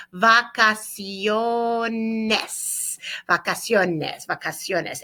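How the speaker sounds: vacaciones drawn out syllable by syllable; slow model word. Shown as a demonstration. Teacher gives students the plural word, slow model word. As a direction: say vacaciones slowly and clearly for learners.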